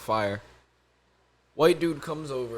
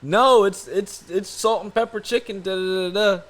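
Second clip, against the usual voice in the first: higher and louder mock-earnest reply, rattled off; Kai's answer; 8 semitones higher, 6 dB louder than usual. Kai answering the white customer, higher, louder mock-earnest chirp. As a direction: play it dead straight and chirpy. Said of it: "Kai ... said".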